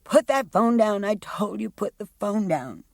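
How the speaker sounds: the fiancé's shout, retold loud and high. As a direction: bark the order as she heard it. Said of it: "What did he shout?".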